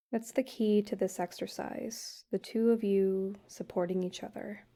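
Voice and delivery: calm guided-meditation voice with long pauses; unhurried, even-toned meditation leading. Acted. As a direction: gently guide a couple through a meditation, leaving space between phrases. Leads couples' guided meditation.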